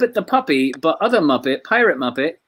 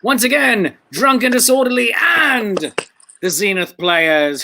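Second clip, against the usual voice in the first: drawn-out emcee announcement; announcer voice; 4 semitones higher, 4 dB louder, slower than usual. Real, not acted. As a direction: introduce the band like a ringmaster. Host announcing the band.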